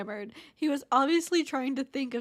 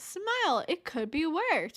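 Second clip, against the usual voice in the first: mock cheerful advice; 5 semitones higher than usual. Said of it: "Imagine telling someone".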